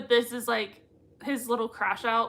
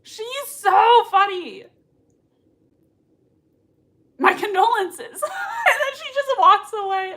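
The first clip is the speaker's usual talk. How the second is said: laughing; 10 semitones higher, 7 dB louder than usual. Real, not acted. Laughing hard at the scene.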